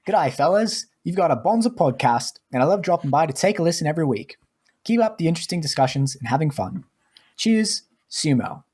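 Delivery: high-pitched Aussie accent, hammed up; Australian accent. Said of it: "now I will start the accent".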